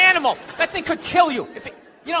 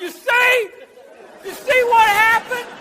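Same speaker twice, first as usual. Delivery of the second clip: mock redneck; 9 semitones higher, slower than usual. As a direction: crow it like a smug redneck. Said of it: "They'll be like".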